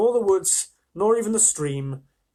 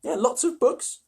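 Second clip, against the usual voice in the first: mock enthusiasm; 9 semitones higher than usual. Reader mocks Susan's line.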